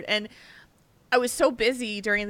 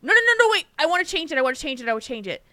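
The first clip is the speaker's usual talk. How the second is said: mock frantic client; 6 semitones higher, 5 dB louder, much faster than usual. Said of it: "it came back and saying".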